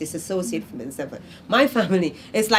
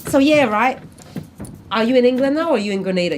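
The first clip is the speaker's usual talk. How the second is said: lively mock question to the kid; a hint of a teasing relative; family member teasing; 5 semitones higher, 5 dB louder, faster than usual. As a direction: tease them at the front door. Mother teasing at the door.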